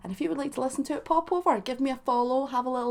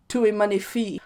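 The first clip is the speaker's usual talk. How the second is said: light mock French accent on "Tout est magnifique"; 3 dB louder than usual. Showing off her French accent to viewers, mock French. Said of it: "saying it with a French accent".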